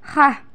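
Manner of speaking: "Hah" with a raspy kh; snore-like throat sound. Shown as a demonstration. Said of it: "seperti suara orang yang sedang mendekur".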